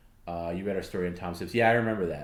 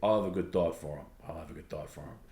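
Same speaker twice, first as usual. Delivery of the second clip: put-on Brooklyn accent; 2 semitones lower than usual. Host imitating dad's friend, light Brooklyn accent. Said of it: "he had a very, like, Brooklyn accent".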